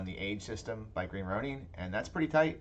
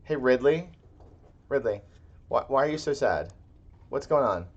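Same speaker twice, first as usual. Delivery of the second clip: pet talk; 4 semitones higher, 7 dB louder than usual. Real, not acted. Talking to the sad dog.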